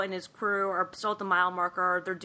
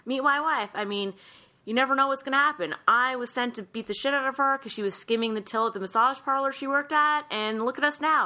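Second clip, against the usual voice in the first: joking aside; 5 semitones higher than usual. Retold or imitated. Man jokingly introducing his wife, playful and higher. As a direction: toss it off as a playful joke.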